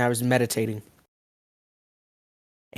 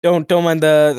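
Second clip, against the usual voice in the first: voice crack; 3 semitones higher, 7 dB louder than usual. Real, not acted. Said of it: "another voice crack".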